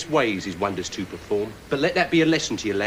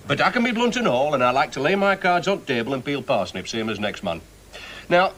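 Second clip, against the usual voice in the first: a put-on Yorkshire accent, blunt and plain-spoken; mock Yorkshire. Mocking the knight's bluntness in a mild Yorkshire accent. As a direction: lay it on in broad Yorkshire, mimicking the knight. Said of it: "this Yorkshire gobbledygook".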